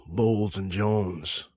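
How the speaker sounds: whispered aside. Pretend. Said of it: "Ladies and gentlemen".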